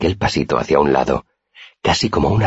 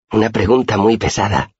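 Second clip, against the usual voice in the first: high little character voice; reply in a small high voice; Auri's voice; 7 semitones higher than usual. A narrator's reading. Girl answers her friend's riddle, high-pitched voice.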